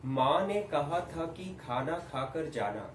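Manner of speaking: slow, slightly projected neutral line. Shown as a demonstration. Teacher raising the drill a notch, slow and somewhat projected. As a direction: lift the volume a little, every word measured. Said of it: "अब इसको थोड़ा बढ़ाइए".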